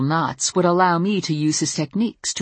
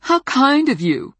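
slow, loud sarcastic bite; sarcastic snap; 10 semitones higher, 6 dB louder, slower than usual. Acted. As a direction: drip scorn on each word. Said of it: "she snapped".

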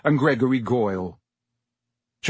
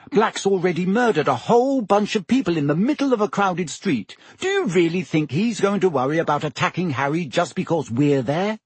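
Hermione's voice; 5 semitones higher than usual. A narrator's reading. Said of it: "snapped Hermione".

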